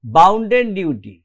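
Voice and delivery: "Bounden duty" drawn out very slowly, stress on "Bounden"; slow emphatic phrase. Shown as a demonstration. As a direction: lean on "Bounden", stretch it. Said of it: "বাউন্ড duty হবে না".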